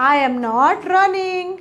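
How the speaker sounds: very slow, clear dictation of each English word; teacher modelling English slowly; slow model sentences. Shown as a demonstration. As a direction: spell the sentence out slowly for learners. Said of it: "તો ચાલો બોલો".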